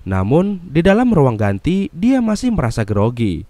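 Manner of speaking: dramatic movie recap narration; narasi alur film. Acted. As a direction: narrate the plot in lively, swinging tones. (narasi rekap film yang dramatis)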